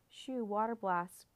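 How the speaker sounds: loud, drawn-out battle command; storyteller's stretched-out call. A narrator's reading. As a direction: order the dragon to attack, slowly and loudly. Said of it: "Bo commanded his dragon".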